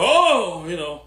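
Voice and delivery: high, whiny scolding of Derek Johnson; mock offended critic. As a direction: play an outraged critic, hammed-up. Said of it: "people go".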